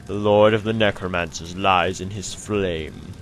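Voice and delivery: slow, relishing victory narration; mock-epic narration. Player gloats over the fallen necromancer, mock-epic. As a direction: wind down slowly into a grand pronouncement.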